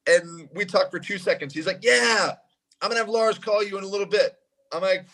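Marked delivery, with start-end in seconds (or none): 1.8-4.4 quoted singer. Retold or imitated. Quoting the singer's upbeat reply.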